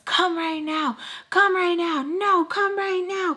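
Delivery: mother voiced begging for help; frightened plea. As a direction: beg urgently, pulling the words out slowly. Mother pleading, same as before.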